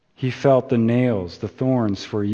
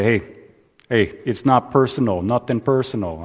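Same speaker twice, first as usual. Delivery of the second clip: put-on light Brooklyn gangster accent. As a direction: put on a mild Brooklyn tough-guy accent. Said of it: "that's my Brooklyn accent".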